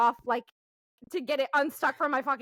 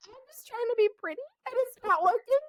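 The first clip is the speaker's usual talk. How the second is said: laughing; 8 semitones higher than usual. Real, not acted. Laughing at her own meltdown.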